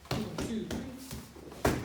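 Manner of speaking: counting out loud with a kiai on three; sharp martial arts commands. Shown as a demonstration. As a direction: bark the count, yell three. Shouted count during kick drill.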